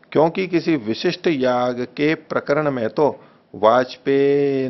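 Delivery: slow, deliberate reading of the text, word by word. Shown as a demonstration. Teacher reading the text slowly aloud for students to follow. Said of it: "मैं धीरे धीरे बोल रहा हूं".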